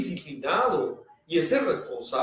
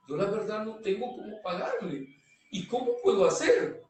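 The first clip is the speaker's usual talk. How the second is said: retold helpless plea; 5 semitones higher than usual. Worker asking the boss how to make up the debt, mildly pleading.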